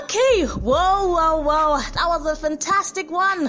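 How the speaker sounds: high, drawn-out gushing; gushing excitement. Real, not acted. Host thanking her guest after the interview, gushing. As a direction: stretch the words out high with delight.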